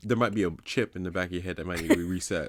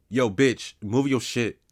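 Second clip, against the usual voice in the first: louder, blunt street bark; mock rude demand; 4 semitones higher, 5 dB louder, slower than usual. To a man blocking the aisle, a louder mock-rude demand. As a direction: tell him to move, half joking.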